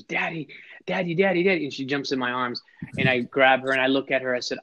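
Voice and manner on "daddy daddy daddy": put-on higher, eager little girl calling Daddy; light mimic of a thrilled little girl; excited little girl. Dad imitates his excited little daughter calling to him, higher. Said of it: "she gets excited and she goes".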